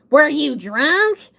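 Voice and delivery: put-on slow, accusing "were you drunk"; suspicious dad. Father questioning his daughter about the accident, slow and suspicious. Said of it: "And he goes".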